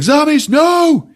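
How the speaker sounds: high, loud, drawn-out no; desperate shout. Retold or imitated. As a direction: stretch the no in horror. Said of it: "Davidge is like".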